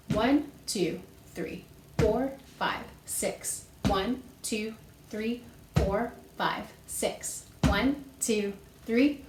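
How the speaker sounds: steady rhythmic count, "One" and "four" as strong beats; accent on one and four. Shown as a demonstration. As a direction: count aloud in sixes, stepping onto "One" and "four". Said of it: "stepping on the strong beats, which are one and four".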